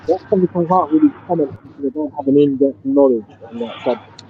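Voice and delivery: muffled, like a hand over the mouth. Real, not acted. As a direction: speak through a covered mouth. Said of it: "You sound muffled".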